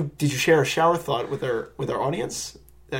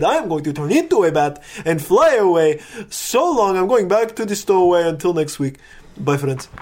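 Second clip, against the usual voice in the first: put-on Transylvanian accent. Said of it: "my Transylvanian accent is kind of changing".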